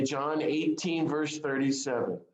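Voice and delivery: John eighteen said slowly, each word spaced; slow down so Cheryl catches John eighteen; slow, deliberate citation. Shown as a demonstration. Preacher reading the verse slowly for Cheryl, deliberate. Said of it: "Listen intently".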